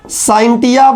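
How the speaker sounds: साइंटिया said "sain-TI-ya", with a t; "t" pronunciation. Shown as a demonstration. Teacher reads a Latin word to class, साइंटिया with a t. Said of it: "इसको कुछ लोग साइंटिया भी पढ़ते हैं".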